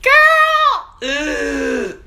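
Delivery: high, loud delighted shriek; thrilled outburst at a friend; excited shriek. Real, not acted. Excited reaction to viewer.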